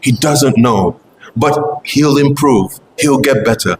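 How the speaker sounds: calm the upset devotee kindly; a hint of tender soothing; gentle pleading. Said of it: "Prabhupada told the Gaudiya Math devotee".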